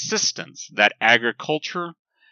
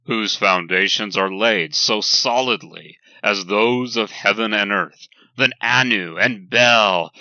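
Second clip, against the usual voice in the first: formal text reading. Acted. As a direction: read it like a proclamation carved in stone. Reads ancient law code aloud.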